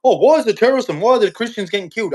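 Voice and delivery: mocking whine.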